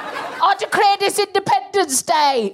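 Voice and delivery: high, slow declaiming impression; exaggerated, put-on speechmaking voice; Nigel Farage. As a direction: proclaim it like a pompous mock politician. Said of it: "He doesn't even talk like that".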